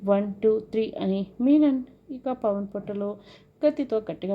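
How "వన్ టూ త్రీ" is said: louder, deliberate count; loud retold countdown; menacing countdown. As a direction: count it out as a threat. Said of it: "లెక్క పెడుతూ".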